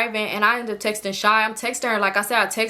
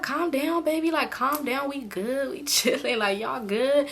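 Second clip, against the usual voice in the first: put-on hushed drunk soothing; 3 semitones higher, 5 dB quieter, slower than usual. Drunk friend soothing her.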